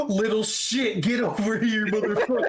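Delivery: high voice cracking up with laughter; laughing taunt. Acted. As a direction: jeer through helpless laughter. Joining in the taunting, while laughing.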